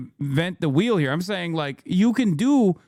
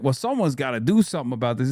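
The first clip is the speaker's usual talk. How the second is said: mock whiny politician; 4 semitones lower, faster than usual. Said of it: "they're always doing like".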